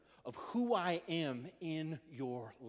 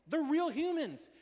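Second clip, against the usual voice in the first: high, slow and louder, every word leaned on; emphatic insistence; 11 semitones higher, 5 dB louder, slower than usual. Real, not acted. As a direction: insist on it, spelling it out slowly. Insisting Jesus's healed are real.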